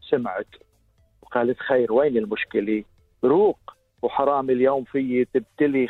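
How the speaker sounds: slow, measured poem delivery; poem recitation. Acted.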